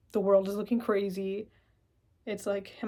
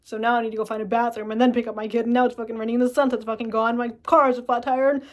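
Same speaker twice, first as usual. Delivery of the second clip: mounting stress; 2 semitones higher, 8 dB louder than usual. Acted. Acting out escalating roadside stress.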